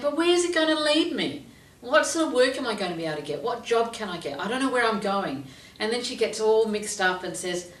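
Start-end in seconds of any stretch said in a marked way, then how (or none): 0.0-5.5 anxious student. Retold or imitated. Client's anxious questions voiced.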